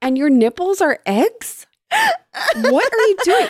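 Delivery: high, indignant disbelief building; rising incredulous rant at him; mock outrage.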